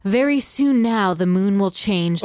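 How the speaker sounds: lightly attempted German accent; mild mock-German lover. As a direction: read it with a hint of a German accent. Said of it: "Do that accent again".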